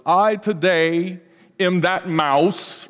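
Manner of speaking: slow, halting celebrity drawl; Christopher Walken voice. Retold or imitated. Pastor quoting the actor's award speech line, slow and halting. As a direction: drag out each word with pauses between them. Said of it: "Christopher Walken says".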